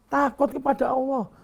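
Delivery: fighting back tears while urging fear of God; near tears. Real, not acted. Father begging his son to fear God, near tears. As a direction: voice catching, pitch lifted as he pleads.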